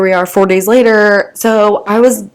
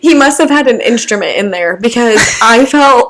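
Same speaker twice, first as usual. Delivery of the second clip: laughing; 3 semitones higher than usual. Real, not acted. Laughing while telling.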